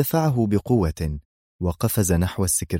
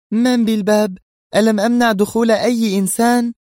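much higher, louder angry woman; 6 dB louder than usual. A narrator's reading. Sonia furious at whoever knocks, high loud anger. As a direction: snap at the door in fury. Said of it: "وقالت بغضب".

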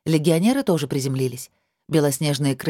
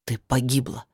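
hoarse; 3 semitones lower than usual. Acted. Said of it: "хрипло проговорил он".

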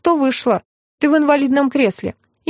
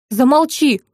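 curt command; slower than usual. Acted. Husband silences the gossiping woman with a mild command. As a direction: shut her up with one word. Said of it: "велел Константин".

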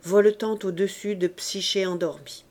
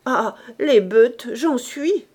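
loud, eager cry, higher at the end; eager exclamation; 4 semitones higher, 6 dB louder, slower than usual. A narrator's reading. Joly cries out, eager to join the riot, loud and keen. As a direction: burst out, thrilled by the riot. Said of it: "s'écria Joly".

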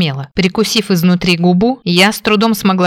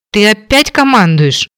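sharp indignant snap; indignant growl; 3 semitones higher, 4 dB louder than usual. Acted. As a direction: bristle at being bossed. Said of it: "возмущённо рыкнула".

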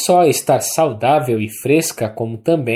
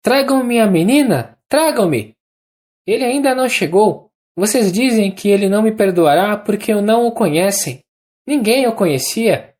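high, ringing, uneven delirious voice; feverish Anna; 7 semitones higher than usual. A narrator's reading. Dying Anna talking feverishly in bed, high and uneven. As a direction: rush out the words in a high, moved, feverish voice. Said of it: "voz sonora e entonação extraordinariamente irregular".

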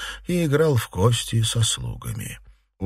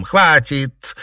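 loud, high command to stop; cried out; 8 semitones higher, 8 dB louder than usual. A narrator's reading. Mistress halting the servant's self-punishment, cried out. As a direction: cut it off with a raised shout. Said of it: "крикнула Фэнзе".

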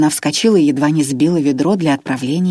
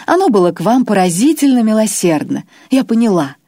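higher, louder gloating; triumphant Irma; 4 semitones higher, 3 dB louder than usual. Acted. Irma gloats at her silent prisoner. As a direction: taunt him from above.

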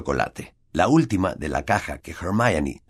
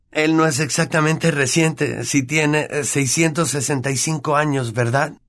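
Ron's voice; 8 semitones higher than usual. Acted. Ron jokes.

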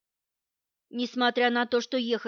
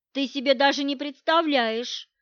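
excited; 2 semitones higher than usual. Acted. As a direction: blurt it out eagerly. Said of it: "возбуждённо доложила ей Мила".

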